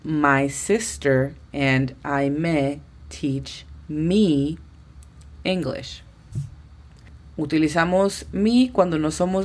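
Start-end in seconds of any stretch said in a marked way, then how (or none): 0.0-6.0 very slow English, word by word; slow model sentence. Shown as a demonstration. Teacher demonstrating the corrected sentence to learners, very slow. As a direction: spell it out slowly for the class. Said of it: "la oración en inglés se diría".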